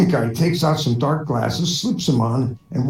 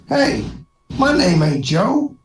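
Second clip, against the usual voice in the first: cowboy drawl; 2 semitones higher, slower than usual. Acted. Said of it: "then he says".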